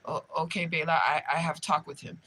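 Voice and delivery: low, quiet imitation of an Arabic-accented boss; imitated Arabic-accented boss. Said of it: "he's Arabic or whatever".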